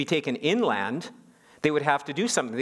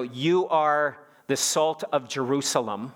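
slow, with JERUSALEM set out as the contrast; hypothetical quote; slower than usual. Retold or imitated. Preacher giving what Jesus didn't say, slow and pointed. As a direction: draw out YOU, then rise on JERUSALEM. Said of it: "Notice he didn't say".

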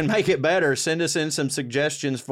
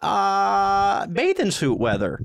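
put-on high, slow Minnesota-accented marvel; hammed-up Minnesota accent; mock Minnesota accent; 4 semitones higher, slower than usual. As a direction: put on a chirpy Minnesota lilt. Mock Minnesota about snow.

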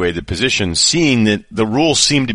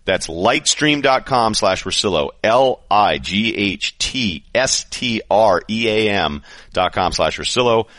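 upbeat host-read ad. Acted. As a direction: sell it like a sponsor spot. Host reads sponsor ad.

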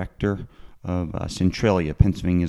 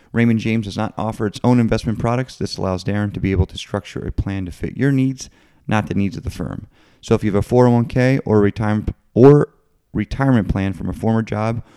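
upbeat sponsor read, a bit louder; 4 dB louder than usual. Acted. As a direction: read it like a radio ad spot. Reads the sponsor message.

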